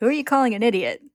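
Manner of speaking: a touch of a huffy prince; indignant retort. Acted. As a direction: take offence at the insult. Prince insulted, snaps back.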